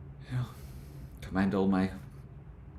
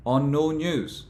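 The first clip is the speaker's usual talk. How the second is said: slow, higher and louder mocking repeat; incredulous echo; 6 semitones higher, 5 dB louder, slower than usual. Shown as a demonstration. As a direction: drag out on no news in disbelief. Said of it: "And it's like".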